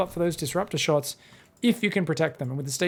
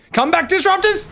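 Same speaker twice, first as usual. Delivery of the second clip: shouted plea; 12 semitones higher, 7 dB louder than usual. Real, not acted. Caster yells at retreating units.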